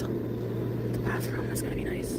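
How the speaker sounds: hushed whisper, slow; a slow whispered aside. Real, not acted. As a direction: breathe it quietly.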